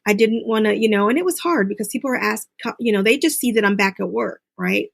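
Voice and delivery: ordinary delivery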